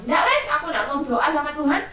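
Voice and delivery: mock angry child grumbling at God; sulking child. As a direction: whine like a cross kid who gave up praying. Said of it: "terus kalian marah sama Tuhan".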